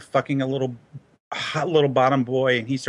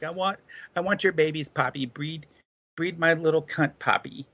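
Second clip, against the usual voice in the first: higher, hammed-up Latino accent, half-laughing; mock Latino accent; 5 semitones higher, 3 dB quieter than usual. Host on podcast, imitating his Latino partner in a mock Latino accent. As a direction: imitate a Latino lover's pleading in a put-on Latino accent. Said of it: "I can't do a Latino accent".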